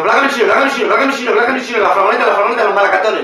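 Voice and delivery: a hammed-up Gitano movie stereotype, chanted; mock stereotype Gitano talk. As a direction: parody the film's cliché Gitano chanting. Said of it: "que todos los gitanos hacen".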